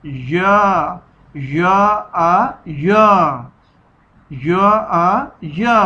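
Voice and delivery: "या" said with a small jerk at its start; jerky या sound. Shown as a demonstration. Teacher drills the letter for children, "या" with a jerky catch. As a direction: give each "या" a quick catch. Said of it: "उसे पढ़ेंगे झटके के आवाज़ के साथ".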